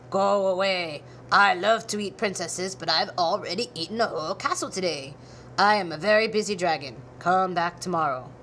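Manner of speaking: a busy, dismissive dragon brushing her off; a hint of a haughty dragon. A narrator's reading. Dragon voice again.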